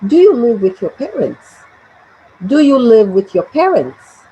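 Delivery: "parents" tilted up at the end; rising intonation. Shown as a demonstration. Teacher asking students to repeat after her, lifting "parents". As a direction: model the question with a lift on "parents". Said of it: "the intonation at the end rises".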